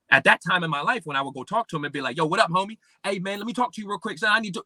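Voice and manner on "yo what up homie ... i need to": higher-pitched, casual street-slang greeting; imitating his younger street-slang self. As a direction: rattle off the slang like calling a homie. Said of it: "it would just be a whole bunch of slang".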